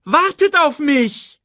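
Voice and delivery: high, drawn-out wail; slow, loud plea shouted into the distance; calling after them. Acted. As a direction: call out, stretching every word. Bird calls after the runaway cubs.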